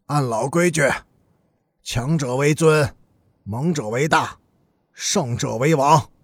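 lightly voiced underworld boss laying down rules; stern gang boss. Gang boss warning the other bosses over the turf, stern.

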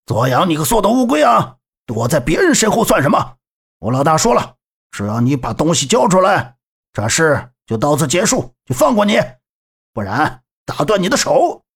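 a lightly voiced bullying fat thug, gruff; thug's shout. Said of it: "喝道". (胖混混轻微变声的呵斥)

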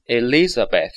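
"Elizabeth" ending in a th with the tongue between the teeth. Shown as a demonstration. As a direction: show the th on Elizabeth. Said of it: "舌头啊放在牙齿之间". (咬舌音读"Elizabeth")

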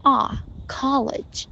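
college drawn out with an open "ah"; slow college with American "ah"; open "ah" vowel. Shown as a demonstration. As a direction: model 啊, then college with that vowel. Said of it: "O的发音完全是英音".

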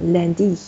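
landy with the closing i in a falling fourth tone; stress on final i. Shown as a demonstration. Teacher corrects the stress for student, final falling tone. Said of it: "是一读四声".

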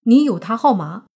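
loud surprised question; astonished question. Acted. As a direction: ask it in sheer disbelief. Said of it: "惊愕地抬头看着泥巴说".

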